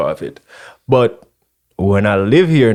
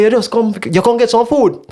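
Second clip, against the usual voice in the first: higher inviting voice; Rasta man voice; 10 semitones higher than usual. Retold or imitated. Rasta man inviting him to get food, pitched up. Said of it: "He say".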